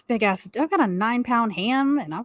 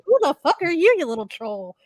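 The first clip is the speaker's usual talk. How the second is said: higher, louder offended yell at the guard; retold angry yell; 6 semitones higher, 4 dB louder than usual. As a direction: spit it out like you're fed up and flustered. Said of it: "I was fucking offended".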